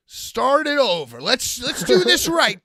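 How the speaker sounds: loud, high, slow command; retold calling out. Wrestler telling the crew to restart, loud drawn-out call. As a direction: call out a restart across the room.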